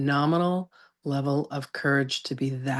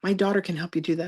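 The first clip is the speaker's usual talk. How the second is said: mother touting daughter; 4 semitones higher, faster than usual. Retold or imitated. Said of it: "handing out my business card".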